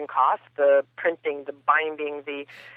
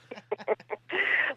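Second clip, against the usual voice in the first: fast forward noise; 4 semitones higher, 7 dB quieter than usual. Acted. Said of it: "That's my fast forward noise".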